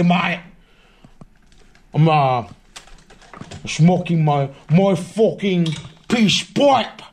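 a hint of a British bloke ranting; low-key British accent bit; mock British accent. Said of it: "now it's time for the U K freestyle".

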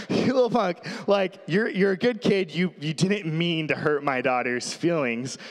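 dad pretending to scold his daughter's crush; mock scolding. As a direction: tease the boy like a protective dad. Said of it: "inside I'm like".

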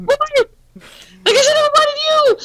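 laughing hard. Real, not acted. Mocking, laughing while crying.

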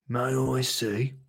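slow, soft character question; gentle. Acted. Mister Thompson asks to see the seeds, slow gentle voice. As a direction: ask softly, taking your time.

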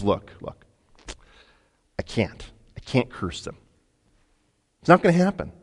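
whispered, secretive confession; conspiratorial whisper. Acted. Balaam whispering his scheme to King Balak.

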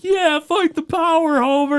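imitating a rallying passerby's whoop; mock cheering. Passerby cheering Homer on, retold.

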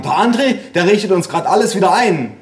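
high-pitched mother speaking up; explaining mother. A narrator's reading. Mother telling grandparents about her son, high-voiced. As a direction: raise the voice high to inform deaf parents.

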